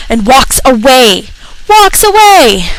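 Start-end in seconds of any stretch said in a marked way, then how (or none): 1.7-2.7 high, slow outraged repeat; incredulous. Real, not acted. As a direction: say it in disbelief, drawn out. Repeated louder.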